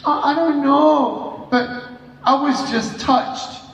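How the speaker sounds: hammed-up crying, halting between words; mock tearful. Crying girl explaining herself to him, mock tearful. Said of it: "Why are you crying".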